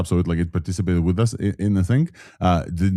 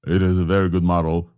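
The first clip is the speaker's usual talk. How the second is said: lower-pitched voice; 3 semitones lower than usual. Shown as a demonstration. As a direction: drop your voice down. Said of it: "in the high and the low voice together".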